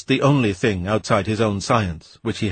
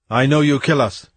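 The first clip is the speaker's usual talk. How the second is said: raised defiant voice; 4 semitones higher, 4 dB louder than usual. Acted. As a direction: push back, chin up. Weston defies Oyarsa in pidgin.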